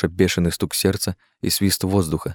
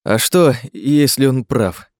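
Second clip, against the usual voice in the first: higher, slow anxious question; nervous gulp; 5 semitones higher, 4 dB louder, slower than usual. A narrator's reading. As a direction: ask it with mounting dread, raised pitch. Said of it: "сглотнул Жером".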